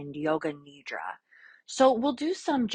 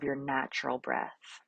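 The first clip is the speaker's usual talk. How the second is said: calm yoga-teacher voice with long pauses; guided meditation. Real, not acted. Yoga teacher settling a class into breath awareness, calm guided meditation. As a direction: lead them gently through the breath, leaving space between phrases.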